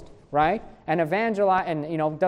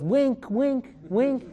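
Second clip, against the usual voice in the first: higher, sly nudging voice; a playful higher tease; knowing wink wink; 6 semitones higher, much slower than usual. Retold or imitated. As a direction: play the coy hint, pitched up. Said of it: "Thomas looks at me and he goes".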